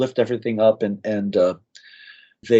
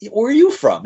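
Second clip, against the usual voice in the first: much higher, eager retold question; 13 semitones higher, 3 dB louder than usual. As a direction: ask like you can't wait for the answer. Eager question to fellow American.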